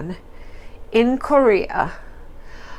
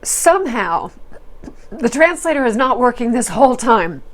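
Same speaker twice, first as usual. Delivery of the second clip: ordinary talk, nothing marked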